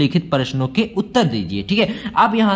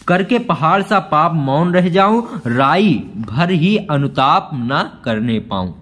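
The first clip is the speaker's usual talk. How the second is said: slow, measured recital of Hindi verse; poem recital; 2 semitones lower, slower than usual. Acted. Teacher reciting the poem extract to students, slow recital. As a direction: let each line of the poem land slowly.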